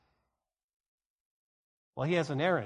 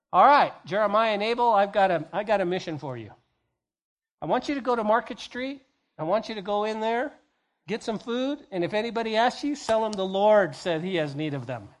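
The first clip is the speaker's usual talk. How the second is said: mock mission briefing; 3 semitones higher, 4 dB louder than usual. Pastor sending Jeremiah and Abel on an errand, mock orders. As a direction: hand out a pretend mission.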